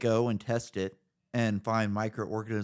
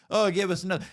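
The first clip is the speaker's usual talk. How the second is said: higher, mocking beggar voice; mock whiny NASA plea; 9 semitones higher, faster than usual. Host mocking NASA begging for more funding, whiny and high. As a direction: whine it like a needy agency asking for more.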